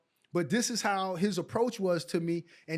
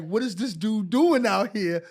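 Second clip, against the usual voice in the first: mock scared coach; 2 semitones higher, 9 dB louder than usual. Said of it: "he was so scared".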